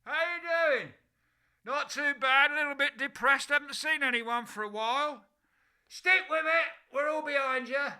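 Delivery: high, loud calling out; shouting up. Pretend. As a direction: shout up to people from down in a bucket. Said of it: "shout up at them".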